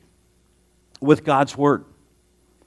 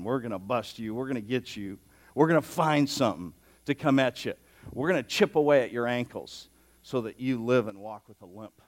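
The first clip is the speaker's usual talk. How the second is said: scheming Pharisees; 4 semitones lower, 7 dB quieter than usual. Retold or imitated. Voicing scheming Pharisees at back.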